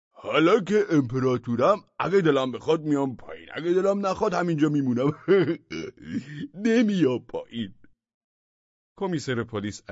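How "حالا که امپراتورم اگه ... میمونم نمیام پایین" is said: high, loud teasing; smug madman. A narrator's reading. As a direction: taunt them from above. Madman taunts crowd.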